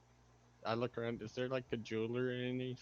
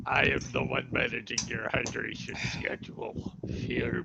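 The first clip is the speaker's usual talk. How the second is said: mock villain voice; 4 dB louder than usual. Mock menacing hydration manager.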